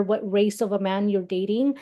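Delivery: ordinary delivery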